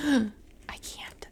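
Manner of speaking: emotional gasp. Real, not acted. Emotional mom gasping over her sweet son. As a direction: gasp then whisper. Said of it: "I'm just emotional".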